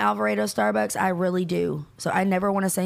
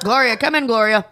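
calling out; 6 dB louder than usual. Pretend. Calling a friend on air.

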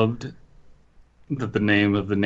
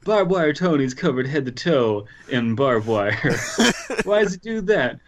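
high, hammed-up Italian mobster; terrible Italian accent; 6 semitones higher than usual. Mobsters defending one of the family, fake Italian accent. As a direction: scold in a bad Italian accent. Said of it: "my terrible Italian accent".

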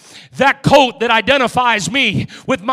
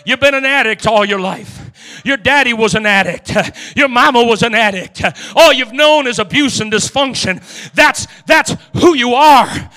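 accusing voice; 4 dB louder than usual. Acted. The past accusing the beggar, loud scornful voice. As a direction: throw the old labels in his face.

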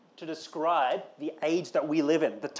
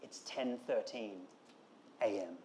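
a hint of a dry, over-precise friend reading out the time, softer and lower; pedantic best man; 4 semitones lower, 5 dB quieter than usual. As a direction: lightly mimic a mate listing every detail of the date. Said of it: "the best man comes to him and says".

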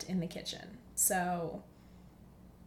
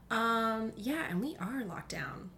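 whisper; 3 semitones higher, slower than usual. Real, not acted. Confirming the lockdown to listeners, whispered. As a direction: whisper it as an aside.

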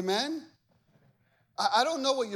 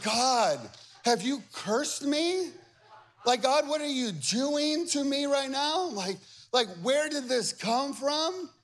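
mock lament to God; 6 semitones higher, slower than usual. Complaining to God, laughing.

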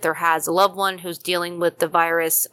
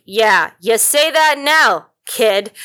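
imitated skeptical colleague; 3 semitones higher, 6 dB louder, slower than usual. Host imitating colleague doubting the zombie love, slow skeptical jab. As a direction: drag it out like a doubting old hand. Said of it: "'cause he's like".

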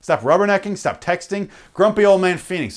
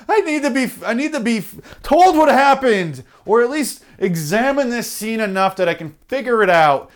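mock baffled rubbernecker; 4 semitones higher than usual. Rubbernecker puzzling over a crash to other drivers, hammed-up high voice. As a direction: ham up a clueless gawker squinting at a crash.

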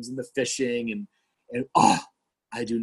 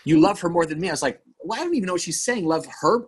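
high, fast confused protest; a touch of retold bewilderment; baffled disbelief; 5 semitones higher, faster than usual. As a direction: blurt out like you can't follow the accusation. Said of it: "And I said".

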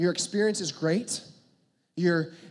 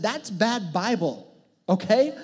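blunt retort; 4 dB louder, slower than usual. Retold or imitated. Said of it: "before I even think about what I said".

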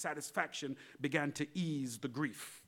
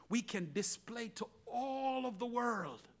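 hushed sermon close; 6 semitones higher, 6 dB quieter, slower than usual. Real, not acted.

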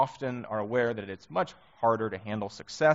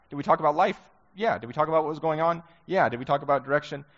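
rising, louder rhetorical questions; building emphasis; 5 semitones higher, 5 dB louder, faster than usual. Real, not acted. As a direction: press each question harder.

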